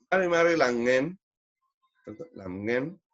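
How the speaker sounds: "langen" with one nasal ng, no hard G. Shown as a demonstration. Teacher showing a greeting, "langen" with nasal NG. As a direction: send the middle of "langen" through the nose. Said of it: "ahí está el nasal".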